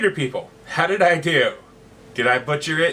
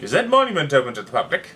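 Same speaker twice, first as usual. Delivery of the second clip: naive; 4 dB louder than usual. Acted.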